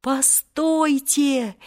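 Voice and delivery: very slow, high call; boy shouting to halt the genie; shout with all his might. A narrator's reading. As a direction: cry out to stop him. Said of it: "закричал тогда изо всех сил Волька".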